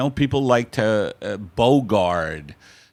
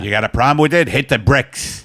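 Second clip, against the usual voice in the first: film noir tough; 4 semitones higher, 5 dB louder than usual. Retold or imitated. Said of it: "talks like a film noir".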